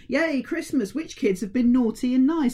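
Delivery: high, gleeful Christmas cheer; excited Santa. Retold or imitated. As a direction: chirp it like an over-keen Santa. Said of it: "where he's all like".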